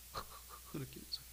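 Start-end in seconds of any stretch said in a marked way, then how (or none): 0.7-0.8 low, quiet mimicked sobs; imitated soft sobbing. Interrogator weeping before the prisoner, soft imitated sobs. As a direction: softly imitate stifled weeping. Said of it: "울음소리가 나는".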